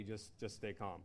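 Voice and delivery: calming dispatcher. Retold or imitated. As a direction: imitate an operator softly talking someone down. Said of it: "and they're like".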